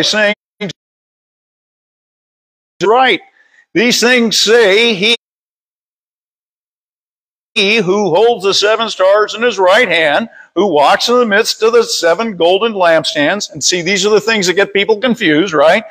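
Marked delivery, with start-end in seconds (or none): 2.8-13.5 measured read-aloud Bible verse; scripture reading. Real, not acted. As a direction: read it out deliberately to a congregation. Reads scripture aloud to congregation.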